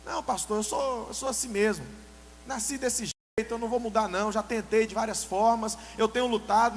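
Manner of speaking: playing the defensive believer with mild heat; mimicking an excuse. Preacher mimics a member excusing his temper, lightly defiant. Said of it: "Essa é uma quarta mentira".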